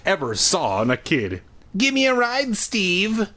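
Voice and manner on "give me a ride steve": shouting. A narrator's reading. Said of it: "she shouted".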